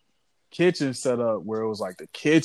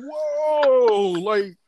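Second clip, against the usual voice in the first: raised pitch, playing dumb; innocent surprise; slower than usual. To his angry girlfriend, a high, mock-innocent whoa. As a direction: act like you know nothing, up high. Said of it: "I'm like".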